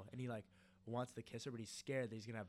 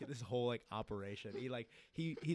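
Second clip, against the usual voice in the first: normal talking voice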